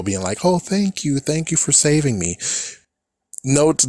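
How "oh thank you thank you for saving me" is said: sugary fake gratitude, a little higher; two-faced sweet thanks. Mocking a fake-nice girl with a sugary thank you. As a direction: sweeten it falsely, hiding contempt. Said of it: "do a two-faced smile".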